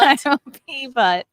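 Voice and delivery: slow words through laughter; laughing. Real, not acted. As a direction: talk while cracking up. Laughing while talking.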